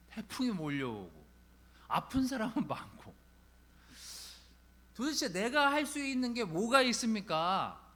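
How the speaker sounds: acted-out complaint to God, rising in pitch; complaining prayer. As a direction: retell a grumbling prayer to God, weary at first, then pleading. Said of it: "이렇게 불평을 놀아놨던".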